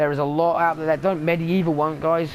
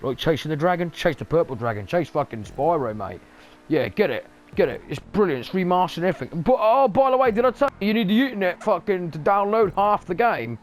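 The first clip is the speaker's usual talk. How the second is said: cheeky street seller pushing the new Spyro game; dodgy hawker selling games. Retold or imitated. Game company as a street hawker, cheeky spiv pitch. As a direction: hustle it like a market spiv, rising at the end. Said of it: "They're like".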